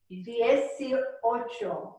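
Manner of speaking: Dieciocho stretched out syllable by syllable, die-ci-o-cho; drawn out slowly for students to copy; very slow model. Shown as a demonstration. Teacher modelling the number very slowly. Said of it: "let me say it first".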